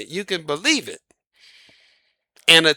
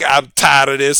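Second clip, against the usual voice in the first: mumbling driver; 4 semitones lower, 3 dB louder than usual. Retold or imitated. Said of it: "He's just mumbling to himself".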